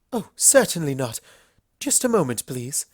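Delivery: fluster, then recover with polish; flustered Rarity. Acted. Rarity voiced in the story.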